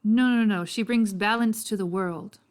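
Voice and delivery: lightly Irish, firm correction; Irish accent. Acted. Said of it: "I'm guessing he's more Irish".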